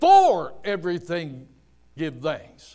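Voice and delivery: strong stress on the word "for". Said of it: "it does not say".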